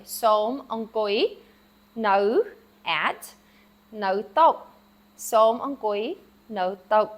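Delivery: Khmer sentence said slowly, word by word; slow model sentence. Shown as a demonstration. Teacher models the Khmer sentence slowly for students. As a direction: spell out the sentence for learners. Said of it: "So you could say".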